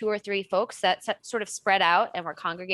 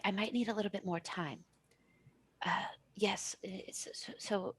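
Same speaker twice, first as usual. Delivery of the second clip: whispered phone call; 2 semitones lower, 11 dB quieter than usual. Acted. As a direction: whisper the call so nobody hears. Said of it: "whispering conversation".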